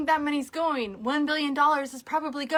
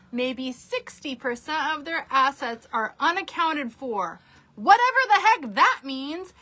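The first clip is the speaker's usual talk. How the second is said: imitating Burchett rant; 4 dB louder than usual. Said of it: "which private corporations are directly".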